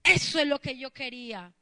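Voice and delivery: long, shouted mock cheer; gloating devil. The devil applauding a believer's surrender, loud gloating cheer. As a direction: stretch it into a huge mocking hurrah. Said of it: "Y el diablo".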